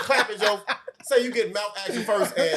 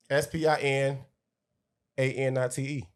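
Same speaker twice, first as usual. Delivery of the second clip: slow spelling out; 4 semitones lower than usual. Shown as a demonstration. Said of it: "Using a sentence".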